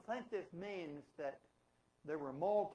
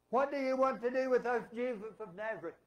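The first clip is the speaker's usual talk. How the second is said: loud, high preacher's outcry; demon crying out; 5 semitones higher, 8 dB louder than usual. Retold or imitated. Preacher acts out the demon confronting Jesus in church, loud outcry. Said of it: "screaming out in a loud voice".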